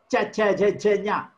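"cha, nya" with tongue touching the palate; touch the palate behind the teeth for "cha"; palatal sounds. Shown as a demonstration. Teacher showing talu sounds, palatal articulation. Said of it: "It will be touching".

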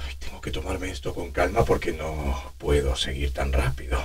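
put-on whispered, breathless old man; breathy old man. Shown as a demonstration. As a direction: gasp it out, short of air. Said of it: "respiración más superior entrecortada".

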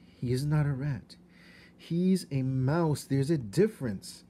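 put-on a girl correcting her father; the princess. A narrator's reading. Princess arguing with king.

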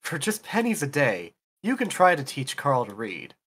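upbeat charity-ad announcer pitch; chipper 1950s ad. Pretend. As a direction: sell it like an old TV appeal. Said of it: "I thought you were about to go into the Gerber Life grow-up plan".

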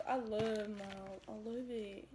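put-on soft, drawn-out little-kid talk; cutesy quiet toddler-like delivery. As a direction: put on a small kid's way of talking, quietly. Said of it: "Why are you talking like that".

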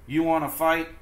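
high, loud, picking a fight; grouchy ladybug. Acted. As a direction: taunt them to fight. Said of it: "said the grouchy ladybug".

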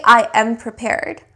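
measured affirmation with weight on I and am; spoken affirmation. Shown as a demonstration. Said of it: "So say".

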